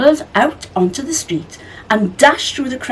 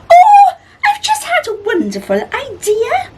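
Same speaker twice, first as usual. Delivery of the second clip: high, loud, giggly delight; giggling; 6 dB louder than usual. A narrator's reading. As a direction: bubble over with a laugh. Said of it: "she said with a giggle".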